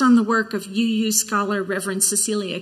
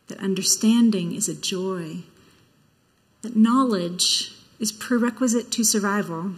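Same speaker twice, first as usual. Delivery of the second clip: awed hushed documentary. Acted. Reads a Carl Sagan chalice lighting.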